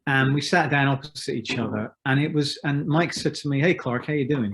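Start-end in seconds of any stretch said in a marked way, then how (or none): 3.6-4.5 lightly imitated American greeting; a hint of an American accent; Mike's slight American accent. Imitating bandmate from the States greeting him after twenty-two years, slight American accent. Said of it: "That's my slight American accent there".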